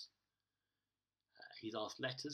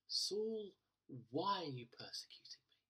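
high ringing call on Saul then a hushed question; a voice from the light, calling then hushed; divine voice calling; 5 semitones higher than usual. Acted. Voice from heaven confronts Saul on the road, high call then hushed.

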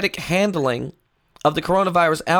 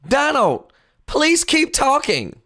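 mock plea; 6 semitones higher, slower than usual. Real, not acted.

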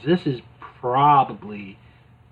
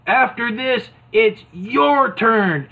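higher, slow teasing threat; mock coach tease; Hulk Hogan; 8 semitones higher, 4 dB louder, slower than usual. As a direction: warn him with a grin. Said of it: "Hogan is like".

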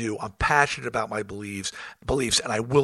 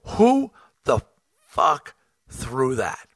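angry call-out; much slower than usual. Retold or imitated. Yelling at crowd after thrown bottle.

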